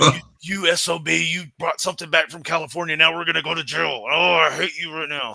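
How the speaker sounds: mock-furious blame of a buddy; angry accusation. Angrily accusing his travel companion.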